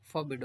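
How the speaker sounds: फॉरबिड with a short 'fuh' first syllable; reduced first vowel. Shown as a demonstration. Teacher corrects the word, फॉरबिड starting with weak 'fuh'. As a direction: say फॉरबिड as 'fuh-bid', no o sound. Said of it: "ओ को नहीं pronounce करेंगे".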